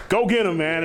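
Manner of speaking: high, loud retold urging; mock cheering shout. Imitating his partner sending him in, mock cheering shout. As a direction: call it out like egging on a teammate.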